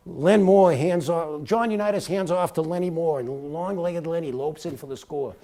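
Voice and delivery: punchy sports call, loud start easing down; play-by-play. Shown as a demonstration. Rookie broadcaster showing off to a Hall of Famer, in play-by-play style. Recites his old football commentary.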